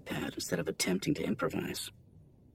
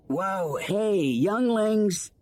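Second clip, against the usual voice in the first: calling out; 9 semitones higher, 5 dB louder, much slower than usual. A narrator's reading. Anakin calls the unruly class.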